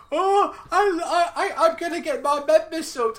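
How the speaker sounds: high, laughing mock excitement; hammed-up eager stammer; excited boy. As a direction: giggle through a boy's eager stammer. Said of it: "And he's like".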